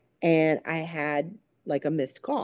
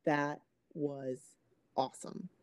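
quiet, spaced-out words from someone awestruck; stunned, speechless; 9 dB quieter than usual. Retold or imitated. Stunned passenger answers the pilot after the flight, hushed awe. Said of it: "he was completely speechless".

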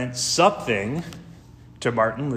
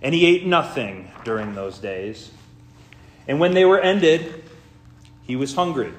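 formal, measured Gospel reading with weighted phrases; solemn lectern delivery with deliberate pauses; scripture reading. Real, not acted. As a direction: read it out to a congregation, phrase by phrase. Reads the Gospel aloud in church.

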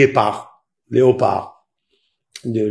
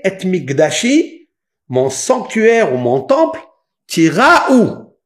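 raised, high proclamation of scripture; forceful preaching; 8 semitones higher, 6 dB louder, slower than usual. Real, not acted. Preacher proclaiming the command to fear the sanctuary, forceful and high. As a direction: hammer it out loud, stretching the key words.

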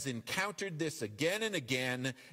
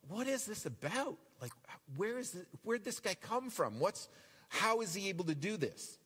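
puzzled crowd; 5 semitones higher than usual. Acted.

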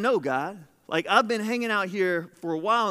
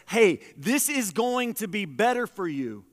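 encouraging God; 3 semitones higher than usual. Acted. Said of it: "he also says".

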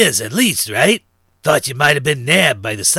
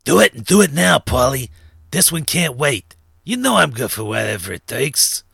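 firm order, louder at the start; serious insistence; 2 semitones higher, 4 dB louder than usual. A narrator's reading. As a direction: press a crony who is balking. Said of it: "said Silk with a serious look".

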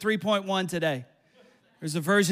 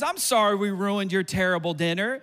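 sarcastic; 4 semitones lower than usual. Retold or imitated. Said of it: "the pastor gets up and says".

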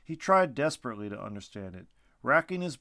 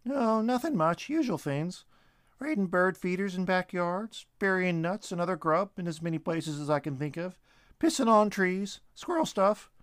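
high, bright-voiced squirrel rattling off chores; Shorty the squirrel telling his friend about his day; chatty squirrel; 7 semitones higher, 3 dB louder than usual. A narrator's reading. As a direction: play a cheeky little squirrel.

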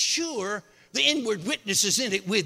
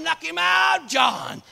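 raised, excited call down the tree; John shouting down to the men below, excited; hollering; 5 semitones higher, slower than usual. Retold or imitated. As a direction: shout the news down to the boys. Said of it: "they're hollering".

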